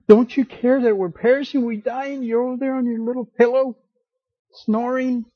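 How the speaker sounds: high, loud, frantic plea; panicked cry. Acted. Frightened disciples wake Jesus in the storm, panicked high cry. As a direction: rush it out like sailors about to drown.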